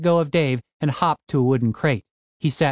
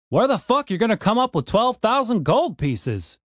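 Where the fuck, disbelieving and raised; incredulous question; 8 semitones higher than usual. Acted. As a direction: scoff in disbelief at the sum.

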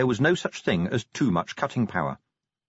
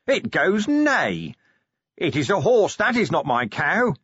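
high sing-song; 7 semitones higher than usual. A narrator's reading. Vimes to the dwarfs, high sing-song. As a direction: chant it like a picture book. Vimes reciting nursery book.

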